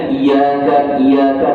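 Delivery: "Iya" said lightly without pressing the y; "iya kan" with a short, unstressed y; light ya, no doubling. Shown as a demonstration. Quran teacher shows the mistake to avoid, "iya" said too lightly. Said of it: "Dia tak boleh ringan".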